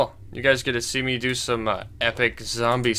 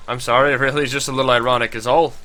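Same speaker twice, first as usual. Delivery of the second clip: put-on Scottish accent; 3 dB louder, faster than usual. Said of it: "pretty close accent to what he's supposed to have".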